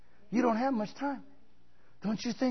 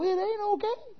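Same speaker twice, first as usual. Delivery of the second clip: stern Jesus. Retold or imitated. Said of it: "And he's gonna go".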